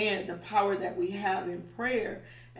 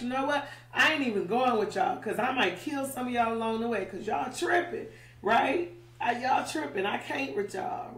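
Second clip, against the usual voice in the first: exasperated God; 3 semitones higher than usual. Retold or imitated. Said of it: "he just told the Israelites".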